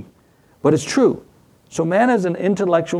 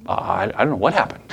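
put-on guilty kid; 4 semitones lower than usual. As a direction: mumble it like a caught child. Guilty child hiding.

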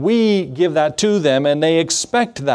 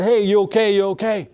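friend calling out; 5 semitones higher than usual. Retold or imitated. Friend checking on dazed rider.

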